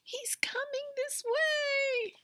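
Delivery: put-on high, slow whisper of a scared child; frightened whisper. A narrator's reading. Scared child's whisper. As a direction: Eddie whispers from the basket as the bear comes, slow and breathy. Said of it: "whispered Eddie".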